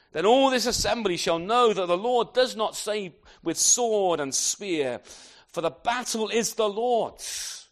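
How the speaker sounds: David's defiant declaration. Acted. David answering Goliath with loud, confident defiance. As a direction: proclaim it like a young warrior facing a giant. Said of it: "David said to the Philistine".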